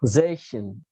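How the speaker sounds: "Zation" with a strong "za" and light "tion"; accent on zation. Shown as a demonstration. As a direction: lean on the first syllable of "Zation". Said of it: "Put an accent on zation".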